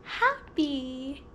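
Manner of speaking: smiling, stretched-out 'happy'; acted happy. Shown as a demonstration. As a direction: model happy for a child. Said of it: "Can you act happy?".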